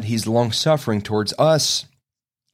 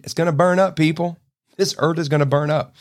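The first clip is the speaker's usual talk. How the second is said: much higher, urgent declaration; emphatic warning; 5 semitones higher than usual. Real, not acted. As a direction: hammer home that it burns. Preacher warns earth will burn.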